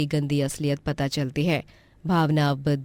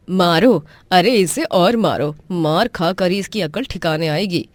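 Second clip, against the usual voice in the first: loud, cruel urging; cruel shout; 2 semitones higher, 5 dB louder than usual. Acted. Aunt shouting to keep beating the niece, loud and cruel. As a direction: egg him on to hit harder.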